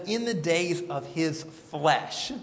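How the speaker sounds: slow every word, weighing the phrase; slow, pointed reading. Shown as a demonstration. Teacher slowing down to point out the phrase to the class. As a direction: draw it out so the class hears the odd wording. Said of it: "phrased a little bit differently".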